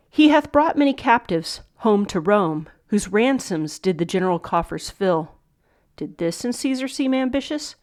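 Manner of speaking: Shakespeare recitation. Shown as a demonstration. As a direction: read it out as a solemn verse line. Teacher reads monologue lines.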